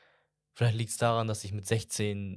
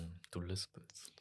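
breathy whispered jab, much softer; teasing whisper; 3 semitones lower, 17 dB quieter, slower than usual. Real, not acted. Teasing the host about lisping, in a soft whisper. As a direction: whisper the tease like a secret aside.

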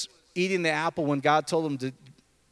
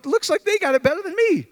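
put-on higher, complaining teen voice; mock envious kid; 11 semitones higher, 4 dB louder than usual. Pastor voicing a teen envying non-Christians, whiny. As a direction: grumble it like a jealous kid. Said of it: "I'm going".

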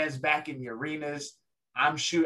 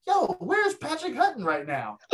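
urgent whisper, pitched up high; mock whisper; 10 semitones higher than usual. Colin pinned in a street fight, whispering for his friend. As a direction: hiss it out like you're pinned and need backup. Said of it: "So Colin's like".

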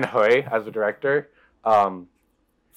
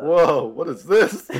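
slow, amused whoa through a laugh; laughing surprise; 5 semitones higher, 4 dB louder, much slower than usual. Real, not acted. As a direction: laugh in disbelief at the pitch. Reacting to a silly film pitch.

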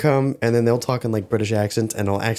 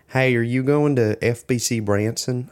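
imitating a Southern friend's drawn-out Tennessee speech; slow, light Tennessee twang; Tennessee accent. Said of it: "she's from Tennessee, so she's like".

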